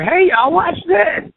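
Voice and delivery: high, loud call to the crowd; mock-rowdy hey y'all shout; excited call. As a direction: hype it up like a daredevil. Joking redneck catchphrase intro.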